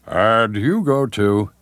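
slow, put-on broadcaster voice; self-mocking on-air delivery; mock announcer. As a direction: draw it out like a pompous announcer. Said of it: "and you drop your voice".

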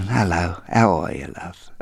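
put-on light Cockney, showing his old voice; hint of a Cockney, playful; Cockney accent. Shown as a demonstration. Hairdresser shows how he once sounded, light Cockney. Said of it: "That's a bit Cockney".

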